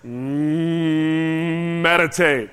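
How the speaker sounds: low hummed moo into meditate; a low cow hum leading into "meditate"; hummed moo then word. Shown as a demonstration. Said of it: "I say it like this".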